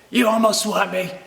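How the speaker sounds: angry canoe guy, hammed up; mock angry stranger. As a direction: imitate the irate canoeist complaining.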